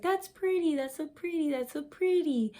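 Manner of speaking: mock gushing, pretty said again and again; gushing overuse of pretty. Mocking a speaker who overuses pretty, lightly gushing. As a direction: lightly parody a girl who calls everything pretty. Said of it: "if you use the word pretty a lot".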